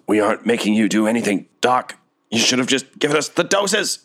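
lightly voiced goblin, rising in pitch; a goblin's mounting protest; angry goblin. Acted angry goblin answering back.

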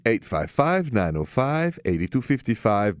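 phone number announced with a little extra lift and push; upbeat number read. Shown as a demonstration. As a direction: sell the call-in number like a host. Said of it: "Any questions for me?".

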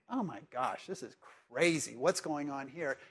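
low, disapproving aside; scandalized dinner hosts. Acted. Preacher voices dinner hosts judging the weeping woman, quietly scandalized. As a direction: mutter in mock disbelief, slowing at the end.

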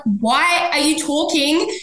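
high, slow laughing disbelief; cackling mock outrage; incredulous. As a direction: stretch the question out in baffled laughter. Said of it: "I'm like".

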